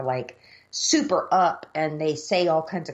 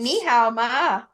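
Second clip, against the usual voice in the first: slow mock Chinese greeting; 4 semitones higher, 3 dB louder, much slower than usual.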